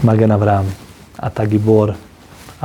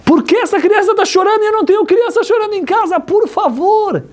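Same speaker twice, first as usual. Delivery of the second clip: a drawn-out, high pleading shout; crying out to God. Retold or imitated. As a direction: cry out to heaven in desperation. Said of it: "Ele começa a gritar".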